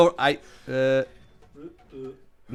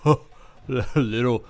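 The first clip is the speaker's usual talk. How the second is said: laughing taunt; 4 semitones higher, 5 dB louder than usual. Acted. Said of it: "he looks at Drasco on the floor and goes".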